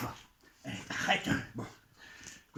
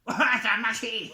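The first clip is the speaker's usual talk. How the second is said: mock delight; 6 semitones higher, 6 dB louder, slower than usual. Trick finally works.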